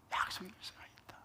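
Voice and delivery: the line repeated as a whisper; whispered echo. Retold or imitated. Pastor voicing a believer's inner self-talk, whispering. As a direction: breathe the repeat, barely voiced.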